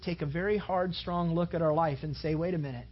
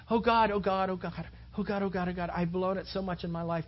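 frantic begging while falling, lightly acted; mock panicked plea; 3 semitones higher than usual. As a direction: beg God in a hammed-up panic. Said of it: "He's fallen screaming towards the ground".

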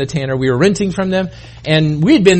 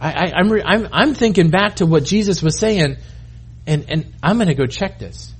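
thoughtful Peter; 5 dB quieter than usual. Acted. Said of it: "and he says".

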